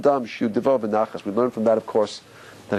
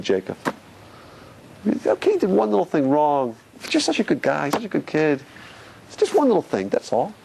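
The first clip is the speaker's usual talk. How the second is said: gentle, loving voice. Acted. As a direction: speak gently like a loving father soothing a child. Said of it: "So God has to speak gently".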